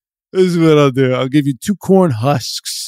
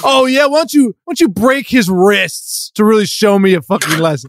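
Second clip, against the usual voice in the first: taunting yell; 4 semitones higher than usual. Acted. Taunting while being hurt.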